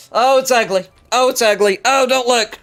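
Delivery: high shrieking horror; shrieking disgust. Real, not acted. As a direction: squeal in horror at it. Sees armor looks ugly.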